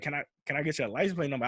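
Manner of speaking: fast, stammered nervous request; retold jittery question, lightly acted; wild shook. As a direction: ask hurriedly, tripping on the first words. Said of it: "I'm saying this wild shook".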